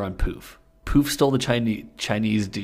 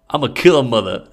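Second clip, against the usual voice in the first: hammed-up threat; 4 semitones higher, 10 dB louder than usual. Villain threat in fanfic reading.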